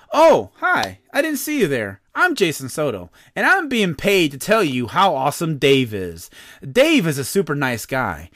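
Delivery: lively, swooping sponsor pitch; mock ad read. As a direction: play a chummy paid spokesman, hammed up. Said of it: "I have to read another ad".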